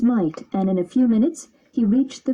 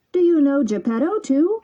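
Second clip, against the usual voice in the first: a hint of a calling bird, raised pitch; lightly voiced pigeon; 6 semitones higher than usual. A narrator's reading. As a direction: call down kindly as the pigeon. Pigeon asks.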